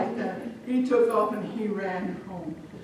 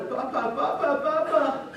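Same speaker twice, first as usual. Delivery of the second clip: put-on high, loud child's call; urgent calling; 7 semitones higher, 4 dB louder than usual. Children running to father, urgent calling.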